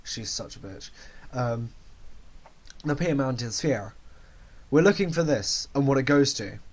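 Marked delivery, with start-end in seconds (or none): 2.8-6.6 badly faked Jamaican accent; clumsy attempt at a Jamaican accent; terrible Jamaican accent. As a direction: read the script in an amateur Jamaican accent. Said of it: "I'm gonna do a terrible Jamaican accent".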